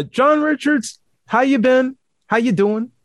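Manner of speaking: high, slow announcer welcome; showman greeting. Acted. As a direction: draw out the name like a host. Greeting the guest in showman style.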